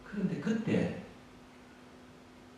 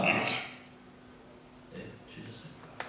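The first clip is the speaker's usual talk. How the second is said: breathless whisper of "주셨을까?"; whispered question; 11 dB quieter, much slower than usual. Real, not acted. Pastor asking the congregation about the book of life, whispered. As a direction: whisper it as if afraid of the answer.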